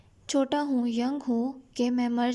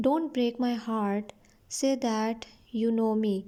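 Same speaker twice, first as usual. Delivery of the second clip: slow story reading; much slower than usual. A narrator's reading. Reads the king's plea slowly.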